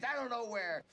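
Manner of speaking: shouting in pain, pleading; desperate shout. Acted. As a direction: yell it out, begging to be believed. Suspect pleading under pain.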